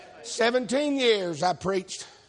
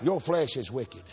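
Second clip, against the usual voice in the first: lower, softer and slow, leaning in; solemn quiet warning; 6 semitones lower, 6 dB quieter, slower than usual. Real, not acted. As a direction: drop it low to make them listen. Solemn warning after shouting.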